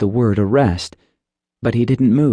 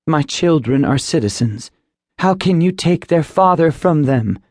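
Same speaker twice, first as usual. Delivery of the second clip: lightly voiced mother, higher, insistent; protesting mother; 6 semitones higher than usual. Mother confronts the agent over her husband's arrest, higher and firm. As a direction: plead with the agent to give the charge.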